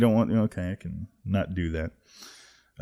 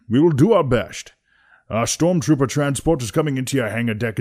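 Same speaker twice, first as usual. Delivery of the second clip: put-on louder, higher older Connery Scottish accent; Sean Connery impression; 4 semitones higher, 6 dB louder than usual. Commander warning the captain of the search, Connery accent. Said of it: "bust out with the Sean Connery".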